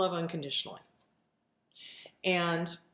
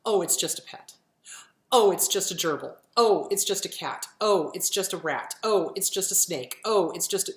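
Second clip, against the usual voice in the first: mocking a dismissive friend, a bit louder; 4 dB louder than usual. Therapist mocking people who dismiss pet loss, dismissive mock voice. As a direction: brush it off like it's nothing, mock tone. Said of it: "So when somebody goes".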